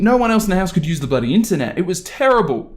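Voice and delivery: ordinary talk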